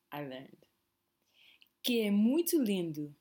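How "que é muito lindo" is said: "lindo" ending sounds like "lindu"; final o as u. Shown as a demonstration. Teacher demonstrates "lindo" ending in u for learners. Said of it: "the O at the end has more of an U sound".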